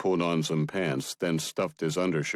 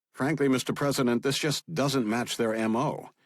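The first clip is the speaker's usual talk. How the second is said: a lightly raised, higher briefing voice; FBI director; 7 semitones higher than usual. Acted. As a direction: report to the boss, dutiful and measured.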